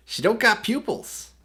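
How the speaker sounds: high, slow spooky remark; mock spooky voice. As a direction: say it like a creeped-out joke. Joking about the creepy doll.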